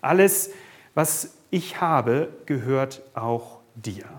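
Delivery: slow tender repeat. Shown as a demonstration. Father reassuring the listener again, slow and tender. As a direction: say it again slowly, almost gently. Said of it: "dieser Vater sagt zu dir".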